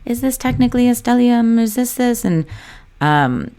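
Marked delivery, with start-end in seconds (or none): 0.0-2.2 confused client. Retold or imitated. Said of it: "I hear this a lot about stelliums".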